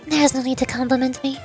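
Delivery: lightly voiced, poised president character; composed student president. President checking on the visitor's work, lightly voiced composure.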